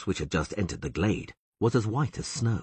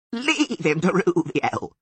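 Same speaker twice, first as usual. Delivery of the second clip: much higher, louder frightened plea; bleating plea; 12 semitones higher, 5 dB louder, slower than usual. A narrator's reading. Sylvan begging Taruviel to leave him, high frightened bleat. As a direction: beg her to stop. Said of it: "bleated the Sylvan".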